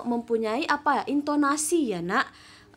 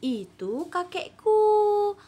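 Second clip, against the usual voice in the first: put-on higher, slow girl's voice; Faridah's answer; 8 semitones higher, much slower than usual. Shown as a demonstration. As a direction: point them out slowly as Faridah. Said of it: "Faridah jawab".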